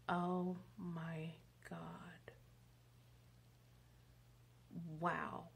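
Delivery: slow breathless whisper; awed whisper. Retold or imitated. Late interviewee whispering, touched by the receptionist's kindness. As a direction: let it out, overwhelmed.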